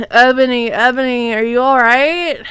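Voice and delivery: hammed-up concern; worried voice. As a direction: ask with exaggerated worry. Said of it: "asked Draco in a worried voice".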